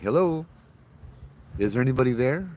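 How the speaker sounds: mild retold call into the night. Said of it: "So I called out".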